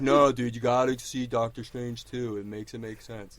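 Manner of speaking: mock-earnest fanboy pleading. Co-host imitating his friend pushing Marvel films, mocking. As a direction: parody a pushy movie fan.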